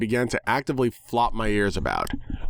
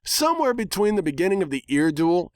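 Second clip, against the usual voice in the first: higher, mildly annoyed reply; irritable pony; 9 semitones higher than usual. Acted. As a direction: answer like an irritated tomboy pony. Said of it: "she replied irritably".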